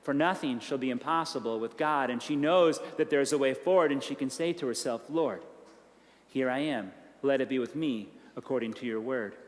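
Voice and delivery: low and quiet, inward; soft prayer. Retold or imitated. Mary quietly reassuring herself with the angel's words. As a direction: say it to yourself like a private prayer.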